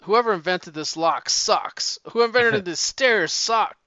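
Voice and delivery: mock complaining, working up to a mild outburst; griping rant. Fish detective griping at his broken lock, building to a mild mock outburst. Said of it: "he's just bitching and griping".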